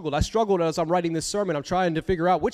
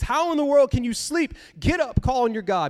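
captain's rebuke; 6 semitones higher than usual. Retold or imitated. Captain wakes sleeping Jonah.

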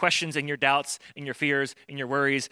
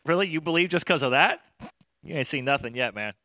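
loose everyday street talk; casual conversational. Shown as a demonstration. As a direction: say it like a buddy teasing. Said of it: "the way that we would say it in conversation".

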